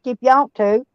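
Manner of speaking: natural country twang; country hick voice. Real, not acted. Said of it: "likes my country hick voice".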